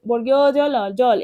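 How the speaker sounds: জল taken apart by letter names, then said whole; name each letter, then blend into জল; spelling aloud. Shown as a demonstration. Teacher has pupils pronounce along, spelling জল aloud. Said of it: "এভাবে তোমরা আমার সাথে সাথে উচ্চারণ করো".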